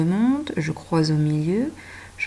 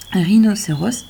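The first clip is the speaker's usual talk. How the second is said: "Rhinocéros" said a little louder, with a rising end; teacher introduces the animal name; emphasised word; 2 semitones higher, 6 dB louder than usual. Shown as a demonstration. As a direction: present the word clearly. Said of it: "ça veut dire le nez".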